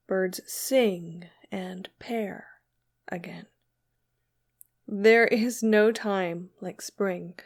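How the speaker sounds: slow, measured poem recital; poetry reading. Acted. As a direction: read the verse unhurriedly, pausing between lines. Reads a poem aloud.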